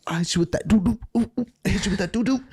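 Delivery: put-on sing-song drunk teasing; laughing mock taunt. Drunk teen taunting his friends, giggling sing-song.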